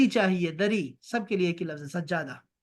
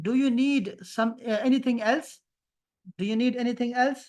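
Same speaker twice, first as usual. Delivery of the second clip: slow translation; much slower than usual. Shown as a demonstration. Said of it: "translating slowly for class".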